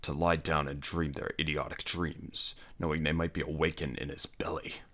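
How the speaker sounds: scornful barbarian talk; gruff barbarian. Acted. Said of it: "grunted Conan".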